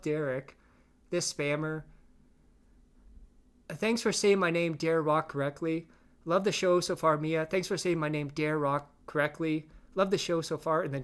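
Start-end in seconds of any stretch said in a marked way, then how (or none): 3.7-7.5 lightly hammed-up chat reading; mock troll read. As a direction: sell the troll's fake sincerity. Reading troll chat, first take.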